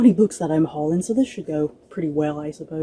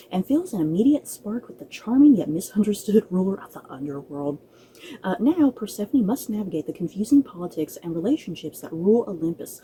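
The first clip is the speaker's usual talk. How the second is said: blurb read aloud. Acted. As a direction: read the blurb like a gentle book teaser. Reads the back-cover blurb.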